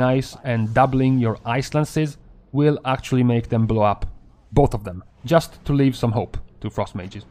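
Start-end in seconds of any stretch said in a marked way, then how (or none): 5.2-7.2 dry sarcastic remark. Acted. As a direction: say it with mock hope. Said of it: "I'm being sarcastic".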